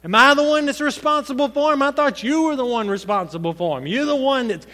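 sneering mock praise of God; defiant sarcasm. Preacher voicing Cain's defiant sarcasm toward God. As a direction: throw sarcasm back at God. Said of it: "That's the attitude he had toward God".

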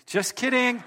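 high-pitched jokey backtrack; playful retraction. Real, not acted. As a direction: call off the joke brightly. Joking about the offering.

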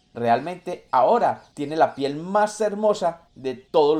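high, proud, showing off; a vain stylist bragging about his work; boastful monkey stylist. Acted.

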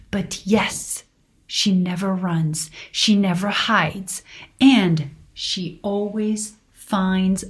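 slow, measured poetic read; poem reading. Acted. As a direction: read it like an inspiring poem, slowly. Reads mother's poem aloud.

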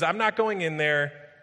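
sullen refusal. Acted. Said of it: "angry enough to die".

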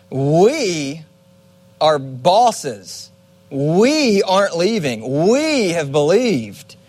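smug, slow boast, leaning on each "we"; condescending. Retold or imitated. Peter boasting to Jesus, mildly condescending. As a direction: talk down to the ones leaving. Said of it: "in a condescending way".

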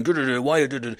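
nonsense syllables as an angry rant; imitated scolding gibberish. German woman ranting at her husband, imitated gibberish. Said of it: "she's going".

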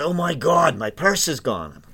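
imitating a tourist's East Coast accent, loud and high on Oh my God, then slow; hammed-up East Coast lady finding her purse gone; mock East Coast panic. Guide retelling a tourist's East Coast panic over her purse. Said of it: "all of them talk like that".

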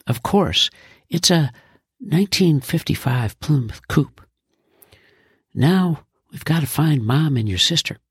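proud and cheerful, lightly voiced; a dad showing off his new car; beaming dad. Father answering his son about the car, beaming.

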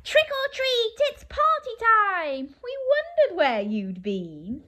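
high, loud, jubilant greeting; excited party cheer. Acted. Monsters welcoming the last one to the party, excited cheer. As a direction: call out a gleeful surprise welcome.

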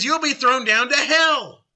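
high, emphatic condemnation; stern rebuke. Acted. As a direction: pronounce the sentence in acted reproach. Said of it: "so we can understand the emotion".

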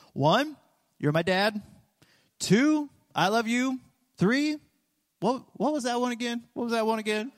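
put-on chirpy child counting it off; three-year-old son. Dad imitating his three-year-old reciting the list. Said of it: "he'll go back and he'll say".

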